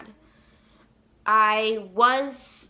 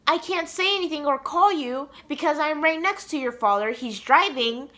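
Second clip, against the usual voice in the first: higher-pitched, excited retelling; eager retold message, pitched up; excited mom; 5 semitones higher than usual. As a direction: bubble over with held-in excitement. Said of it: "I want to scream and yell of excitement".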